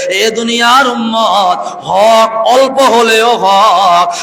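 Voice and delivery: slow, loud preaching with words drawn out; fiery preaching. Real, not acted. Preacher rousing the congregation, slow and loud. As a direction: hammer the truth home to the crowd.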